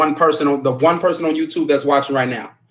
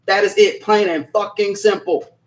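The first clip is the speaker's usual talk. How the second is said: snapping; 3 semitones higher than usual. Real, not acted. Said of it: "I'm sorry for snapping".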